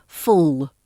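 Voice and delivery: full ending on a dark, back L. Shown as a demonstration. Teacher gives an example, full with a dark L. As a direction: raise the tongue back for the L in full. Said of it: "the dark L".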